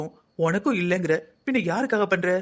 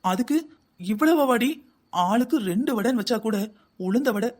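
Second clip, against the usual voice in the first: indignant disbelief; 4 semitones higher, slower than usual. Acted. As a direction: hit it high like you can't believe it. Husband scolds wife over snacks.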